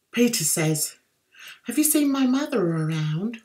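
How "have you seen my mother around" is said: badly faked American accent; rubbish American accent. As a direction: attempt American and miss. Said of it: "my American accent is rubbish".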